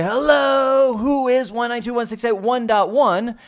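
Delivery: high, loud call into the void; scream into the wire. Pretend. Computer broadcasting an arp message, a loud high call. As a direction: shout it out to everyone at once. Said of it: "I can scream into the network wire and say".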